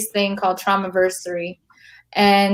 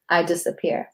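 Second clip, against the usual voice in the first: soft, trailing spoken-word line; fading recital; 3 semitones lower, 5 dB quieter than usual. Shown as a demonstration. Poet lets her closing line fade like the written words. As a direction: let the word "disappear" start to fade. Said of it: "the way I wrote disappear".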